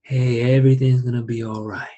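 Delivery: gently reassuring, understated; soft soothing tone. Shown as a demonstration. Father calming his crying baby, soft soothing tone. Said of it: "speak softer and I speak in these lower tones".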